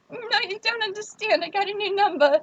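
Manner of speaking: high, pleading fake desperation; mock sob story. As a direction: beg him to understand, overacted. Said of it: "I sell him the whole sob story again".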